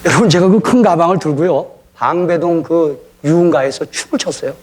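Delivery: normal talking voice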